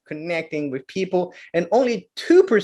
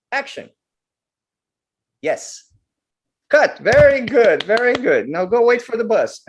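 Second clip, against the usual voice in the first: director voice; 4 semitones higher than usual. Retold or imitated. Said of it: "the director comes".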